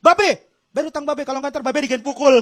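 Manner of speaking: cute debt collector. Acted. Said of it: "Imut ya, imut ya".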